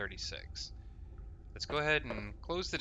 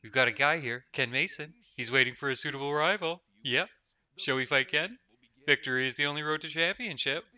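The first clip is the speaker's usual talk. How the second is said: louder, eager sing-song as if to a dog; like talking to a dog; 2 semitones higher, 5 dB louder than usual. Retold or imitated. Player repeating Patsy's line as if talking to a dog. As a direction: coax him like a puppy, a bit mock. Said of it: "talking to me like he's talking to a dog".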